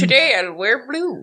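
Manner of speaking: laughing through a mock line. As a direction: giggle while teasing. Mocking joke while laughing.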